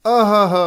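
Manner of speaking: short loud mock cry of pain; lightly acted "ouch" cry; pained exclamation. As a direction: yelp as if a bee just stung your hand. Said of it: "अर्थात ओहो".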